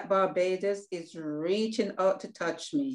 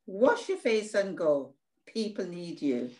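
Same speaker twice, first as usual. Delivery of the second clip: self-encouragement. Acted. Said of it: "I have to stand up and say".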